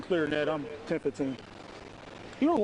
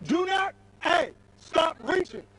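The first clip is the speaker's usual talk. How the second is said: sudden slow yell, higher pitch; real shout; 4 semitones higher, slower than usual. Real, not acted. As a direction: cut him off with a shout. Suspect reaching, officer shouts.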